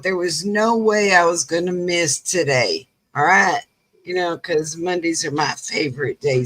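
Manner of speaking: hoarse from being sick; croaky, under-the-weather voice. Real, not acted. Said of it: "if I sound like a croaky frog".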